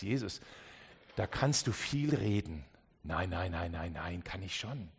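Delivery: low, casual brush-off; a listener telling Jesus to relax; dismissive. Pretend. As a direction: wave it away, easy-going.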